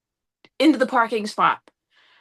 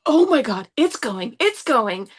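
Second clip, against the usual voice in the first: retold freak-out; slower than usual. Driver feeling the wheel lock up, retold panic. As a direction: re-enact mounting panic. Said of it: "I was freaked out".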